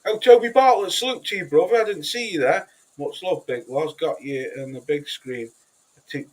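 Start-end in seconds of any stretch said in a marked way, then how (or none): 0.1-2.7 hyped shout-out. Retold or imitated. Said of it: "I go like".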